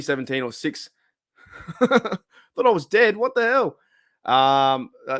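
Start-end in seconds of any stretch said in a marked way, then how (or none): 1.3-3.8 laughing disbelief. Real, not acted. Laughing at a joke about himself.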